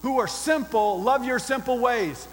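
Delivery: impassioned challenge called from the city walls; crying out. Acted. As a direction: demand it of the whole crowd, leaning on key words. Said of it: "and she's saying this".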